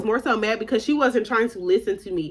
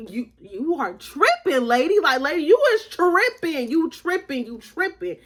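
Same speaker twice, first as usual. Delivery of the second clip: sassing mom; 5 semitones higher than usual. Retold or imitated. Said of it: "And I'm like".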